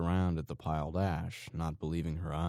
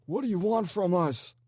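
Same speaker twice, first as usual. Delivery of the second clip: high, loud cry of a captive; desperate scream; 7 dB louder than usual. A narrator's reading. Handcuffed captive screaming at his captors. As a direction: hurl it out in terror. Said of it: "the man screamed".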